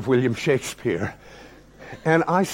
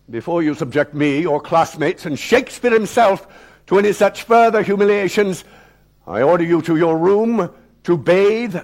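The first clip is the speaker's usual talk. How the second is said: cold calm; 4 semitones higher, 4 dB louder than usual. Retold or imitated. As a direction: deliver the order with chilling composure. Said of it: "he said with a calm devoid of anything remotely resembling human understanding".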